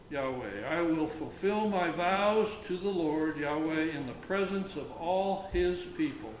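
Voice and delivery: measured psalm reading; solemn psalm reading; scripture reading. Acted. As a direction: read it like a lectern reading. Reads psalm aloud.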